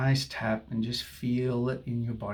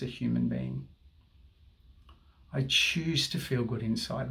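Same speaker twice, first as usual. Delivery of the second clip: soothing tapping guide; guided affirmation. Acted. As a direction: speak each phrase as a calming mantra.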